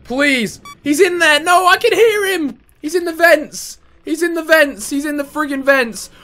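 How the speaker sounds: high, whimpering panic; scared horror game streamer. Real, not acted. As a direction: fret like a scared gamer. Hears enemy in vents.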